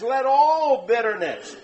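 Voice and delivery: "all" slightly leaned on as the verse begins; reading scripture with stress on all. Shown as a demonstration. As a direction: give the word all weight. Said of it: "I emphasize that word all".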